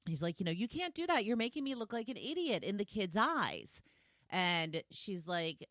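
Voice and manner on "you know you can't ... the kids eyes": high-pitched mock indignation; more upset. Husband complaining to wife about the kids, mock upset. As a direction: imitate a husband protesting, worked up. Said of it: "he's getting more and more upset".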